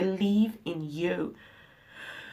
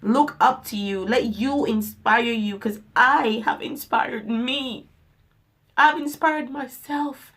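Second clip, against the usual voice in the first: rousing; 4 dB louder than usual. Real, not acted. Rousing self-empowerment speech.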